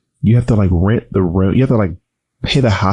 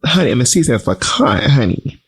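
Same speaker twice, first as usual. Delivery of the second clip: sassy redo; 4 semitones higher than usual. Shown as a demonstration. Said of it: "I don't know how I said it before".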